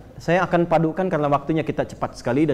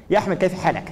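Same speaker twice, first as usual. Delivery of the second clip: Arabic greeting like a native; Arabic phrase. Retold or imitated. Preacher imitating an Indonesian on the phone, speaking Arabic greeting. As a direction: greet a friend in fluent Arabic. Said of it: "bahasa Arab nggak kelihatan orangnya".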